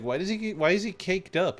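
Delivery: high-pitched retold question; imitating Danny. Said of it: "Danny was, like, the first one".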